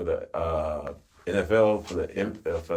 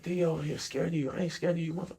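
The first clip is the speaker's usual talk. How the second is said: hushed retold aside; 6 semitones higher, 9 dB quieter than usual. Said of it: "I was like".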